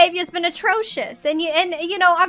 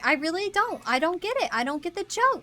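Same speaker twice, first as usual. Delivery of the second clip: put-on nasal New York nanny accent; Fran. Nanny grilling someone about her client, nasal New York accent. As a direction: talk out your nose like a New York nanny. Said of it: "bringing a certain Fran".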